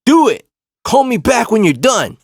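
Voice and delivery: high, loud imitated shout; defiant retort. Retelling girlfriend's reply to cousin's threat, loud mock defiance. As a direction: throw the dare back, imitating the girlfriend. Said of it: "the fact that she said".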